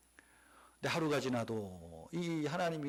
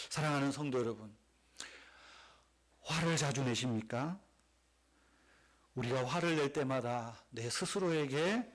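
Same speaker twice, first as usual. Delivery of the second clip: normal talking voice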